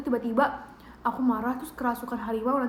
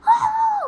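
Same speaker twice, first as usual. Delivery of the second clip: high far-off mock gamer scream; sudden squealing fright cry, imitated; 6 dB louder than usual. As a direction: shriek like a scared kid at a jump scare. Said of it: "tiba-tiba kayak".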